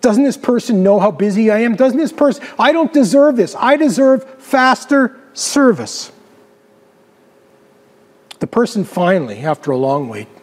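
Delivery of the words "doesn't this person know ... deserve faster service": indignant, mildly angry complaint; acted, contained exasperation; angry inner rant. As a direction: fume with entitlement, slowing hard on the last words. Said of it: "But you're very angry".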